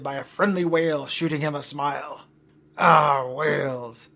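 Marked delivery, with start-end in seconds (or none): 2.8-4.1 musing. Acted. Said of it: "he mused".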